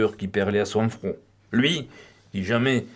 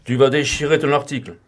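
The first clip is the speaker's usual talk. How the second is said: ordinary delivery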